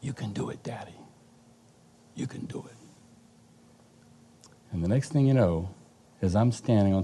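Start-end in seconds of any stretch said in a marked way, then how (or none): 0.0-2.8 put-on much softer, faint, half-whispered child's encouragement; a small daughter's voice calling up from far below; little bitty voice. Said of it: "I hear this little bitty voice".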